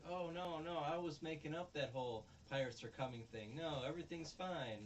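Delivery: imitating a forced happy cover-up for the kids; fake cheerful. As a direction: brush it off with a forced carefree lilt. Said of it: "he puts on a happy face".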